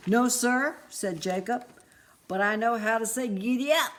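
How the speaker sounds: put-on proud kid showing off; eager boy. Jacob eager boy answering.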